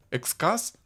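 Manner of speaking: "Экскас" with an "а" in the stressed last syllable, rising high; trying out a pronunciation. Shown as a demonstration. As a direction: offer "Экскас?" as a questioning alternative reading. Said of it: "Как правильно читается этот ник".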